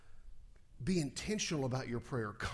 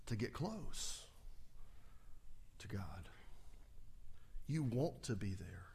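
whispered, dropping to breath; 7 semitones lower, 11 dB quieter than usual. Real, not acted. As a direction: hush it as if confiding. Intimate desire for closeness.

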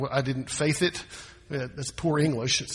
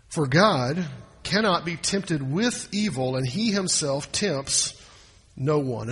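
slow scripture reading; 3 semitones lower, slower than usual. Shown as a demonstration. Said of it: "Look what verse thirteen says".

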